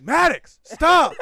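high, loud, alarmed reprimand; retold scolding shout. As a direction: yell at your friend to cut it out. Retold scolding of a friend yelling out.

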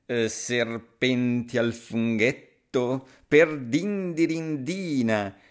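slow snake voice, rising in dismay; a snake spooked but hiding it; startled snake. Acted. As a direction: snake backing off from the threat, slow and uneasy. Snake alarmed, retreats.

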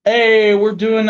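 normal talking voice

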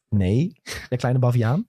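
slow, deliberate mock-patient correction; measured, emphatic comeback; exasperated retort. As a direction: spell it out slowly for a know-it-all. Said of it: "Dus moest ik weer zeggen".

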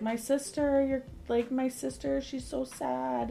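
high-pitched mock child's wail; Gavin crying. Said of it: "Gavin was in the car screaming and crying".

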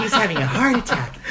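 lightly voiced sinister sidekick; a hint of an Igor-like lackey; Peter Lorre. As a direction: imitate a creepy little henchman lightly. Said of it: "little Peter Lorre character or Igor".

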